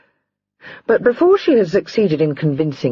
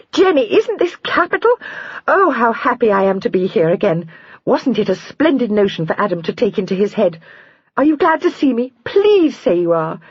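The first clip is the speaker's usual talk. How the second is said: excited calling out; 8 semitones higher than usual. A narrator's reading. Sister-in-law calls out to Jenny, bubbling over. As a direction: call up the stairs bubbling with joy. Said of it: "calling out".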